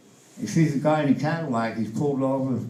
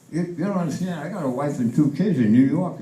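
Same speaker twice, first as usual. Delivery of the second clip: flustered pleading; 5 semitones higher, faster than usual. Acted. GI pleads with his girlfriend.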